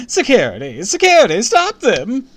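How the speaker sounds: high, very loud alarm call; screaming for security. A narrator's reading. Receptionist summons guards after the kids, screaming. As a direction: yell urgently for help. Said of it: "the receptionist screamed".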